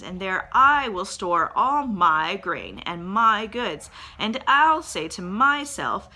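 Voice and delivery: a rich man loudly planning bigger barns; boastful rich man. Acted. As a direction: play the greedy farmer, loud and self-satisfied. The rich man's inner plans.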